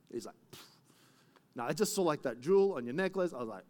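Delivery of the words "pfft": short puff of air through the lips; wordless puff, as if bowled over; imitated "pfft". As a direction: blow out a quick "pfft". Imitates the smitten husband's reaction.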